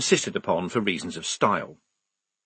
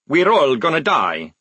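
despairing wail; 4 semitones higher, 5 dB louder than usual. A narrator's reading. Maledict despairing, head in hands.

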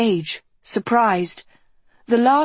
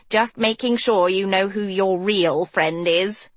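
gushing Hort. Acted. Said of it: "Hort gushed".

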